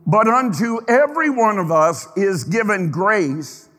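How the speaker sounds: "every one of us" lifted as the key phrase; stress on EVERY. Shown as a demonstration. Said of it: "depends on where you put the emphasis".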